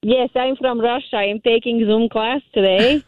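put-on Russian accent; fake Russian accent. Shown as a demonstration. Caller demonstrating for radio hosts, fake Russian accent. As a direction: speak in a pretend Russian accent. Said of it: "a little bit of your Russian accent".

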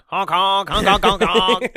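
loud silly honking; silly clown. Retold or imitated. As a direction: honk like a clown horn. Ace Ventura honking bit.

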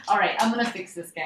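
echoey, tunnel-like sound; like talking from a tiled bathroom; echoing bathroom. Real, not acted. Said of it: "Why does it sound like Amy is in a tunnel?".

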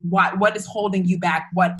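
reliving the fight, pressing hard at him; retold blowup. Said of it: "I lost my shit".

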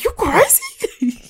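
very high, drawn-out squeal; mock-shocked squeak, breaking into laughter; incredulous mock outburst. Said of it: "your spirit is just like".

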